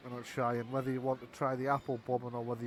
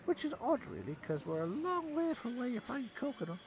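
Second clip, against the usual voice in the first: goblin carny voice; 8 semitones higher, 3 dB quieter than usual. Acted.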